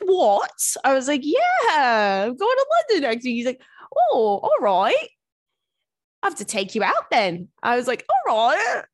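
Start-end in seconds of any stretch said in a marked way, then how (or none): 0.0-0.5 high, loud surprised yelp; mock surprised what. A guy at the bar reacts, high and loud disbelief. 1.2-3.3 high, loud, fast repeat; louder insistent repeat. Retold or imitated. Repeating London plans to the guy, loud and high. 3.9-7.5 guy agreeing. Retold or imitated. 8.1-8.8 very high, loud thrilled agreement; squeaky excited all right. Retold or imitated. Agreeing to his date, squealed high and loud.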